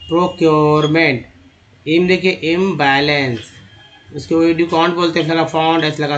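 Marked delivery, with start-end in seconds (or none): 0.1-1.3 "प्रोक्योरमेंट" slowly, with the middle drawn out; syllable by syllable. Shown as a demonstration. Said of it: "पीआर को प्रो बोलते हैं". 2.3-3.4 "इम्बैलेंस" in slow, separate parts; slow sounding-out. Shown as a demonstration. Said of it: "इम, एबीएल को एबल".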